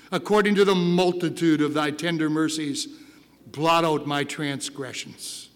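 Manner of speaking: a hint of David crying out, low and earnest; David's plea. Pastor voicing David's psalm to the church, low earnest plea. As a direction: pray it as a broken king. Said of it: "he cries out to God".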